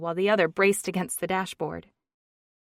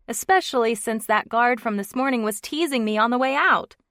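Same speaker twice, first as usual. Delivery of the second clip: loud, raised, higher voice over the music; yelled over music; 4 semitones higher, 6 dB louder than usual. Acted. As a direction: shout it over the car stereo. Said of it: "yelled over the music".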